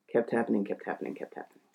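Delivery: normal voice fading to nothing. Real, not acted. Repeated phrase dying away.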